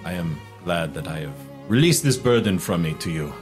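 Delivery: lightly voiced courtly merchant, measured and deliberate; effusive merchant. Merchant apologizing to his new friend for the burden, courtly. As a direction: play a flattering, deal-making merchant.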